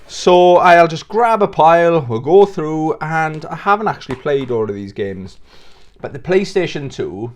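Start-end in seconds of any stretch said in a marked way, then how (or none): 6.0-7.3 talking with food in mouth; mouth full. Real, not acted. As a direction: speak around a bite of rice cake. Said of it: "sorry, I got food in my mouth".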